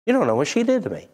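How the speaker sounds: mock whiny excuse. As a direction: rattle off the excuse like a complaining churchgoer. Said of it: "here's our excuse".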